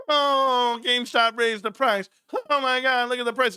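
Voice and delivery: lightly whiny mock complaint; a half-hearted whine at the price; mocking whiny card shops. Mocking card shops crying online, mild whine. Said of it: "Crying and shit on the internet".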